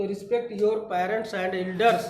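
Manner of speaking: very slow, word by word; slow dictation. Shown as a demonstration. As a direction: dictate it twice for the class. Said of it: "तो".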